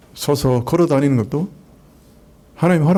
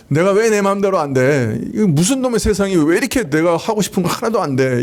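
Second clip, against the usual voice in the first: 흉내 낸 짜증; 5 semitones higher than usual. Retold or imitated. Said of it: "이러면서 막 화를 내는".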